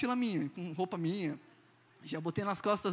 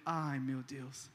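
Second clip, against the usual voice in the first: dismayed sigh; 8 semitones lower, 7 dB quieter, much slower than usual. Retold or imitated. Told he can't board with bag.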